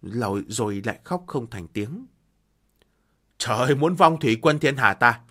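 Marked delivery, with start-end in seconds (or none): 3.4-5.2 wailing. Acted. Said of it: "gào khóc".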